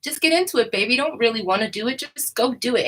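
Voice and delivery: high, pushy mock pep talk; lightly hammed-up Brooklyn salesman coaxing baby; imitating the broker's pep talk. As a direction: hype someone up like a slick Brooklyn broker. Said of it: "he also has that, like".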